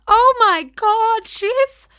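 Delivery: very high, loud, slow gushing voice; cartoon voice. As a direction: gush like a cartoon character. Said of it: "a cartoon voice".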